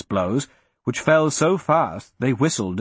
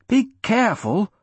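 high-pitched call, only mildly raised; calling after him; 8 semitones higher than usual. A narrator's reading. Arista to the departing Hadrian, calling after him. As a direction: call a warning in a higher voice. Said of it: "Arista shouted after him".

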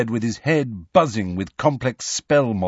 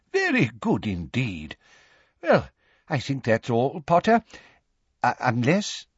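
put-on hesitant, wavering elderly professor; quavery old man; 3 semitones higher than usual. A narrator's reading. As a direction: muse aloud in an old man's quaver. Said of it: "in his quavery old voice".

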